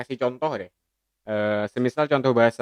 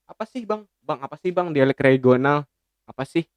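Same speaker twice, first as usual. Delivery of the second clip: impatient listener; 3 semitones higher than usual. Pretend. Mock listener interrupts asking.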